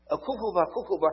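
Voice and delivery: a mild, tender let-it-out; gentle comfort. Retold or imitated. Comforting a grieving widow, tenderly. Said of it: "我说这句话我还不会讲".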